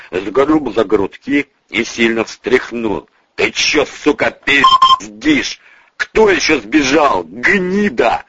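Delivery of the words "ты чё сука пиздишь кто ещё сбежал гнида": high, slow menacing demand; angry interrogation. Acted. Boss shakes the bodyguard for answers, furious. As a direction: press him with insults.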